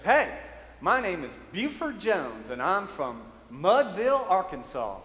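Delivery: lightly voiced Arkansas stranger; a loud friendly hey then easy intro; hint of a country visitor. Retold visitor introducing himself.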